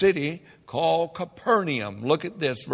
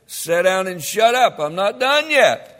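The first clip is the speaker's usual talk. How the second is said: loud, firm, no-nonsense order; stern command; 4 semitones higher, 7 dB louder than usual. Acted. Jesus telling the watch-raisers to sit down, loud and stern. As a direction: shut them down with authority.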